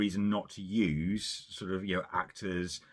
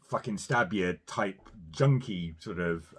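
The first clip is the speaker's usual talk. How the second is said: put-on Glaswegian accent; slower than usual. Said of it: "a Michelle Gomez-esque Glaswegian".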